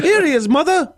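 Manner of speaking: put-on high childlike announcement; piped up like a little kid; child voice. Cratchit child calling to mother, high and childlike. Child role line read.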